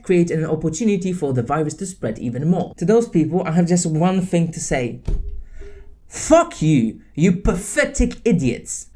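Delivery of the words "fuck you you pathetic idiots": contemptuous curse; real angry dismissal; angry insult. Real, not acted. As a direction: spit it at them. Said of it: "sorry for getting emotional and angry".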